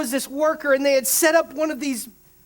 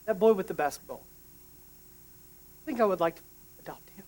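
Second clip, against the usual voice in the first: kindly; 3 semitones lower, 6 dB quieter than usual. Retold or imitated. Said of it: "he just kindly said".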